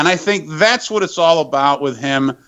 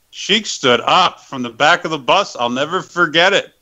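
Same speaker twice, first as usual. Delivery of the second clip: plain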